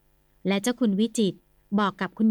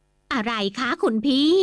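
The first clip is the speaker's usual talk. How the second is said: lightly voiced lady; 3 semitones higher, slower than usual. Sister answers her brother in a light lady's voice. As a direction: answer as a gentle wife.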